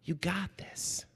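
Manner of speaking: soft unvoiced whisper to a player; whispered coach encouragement. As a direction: lean in and whisper reassurance. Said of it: "he says".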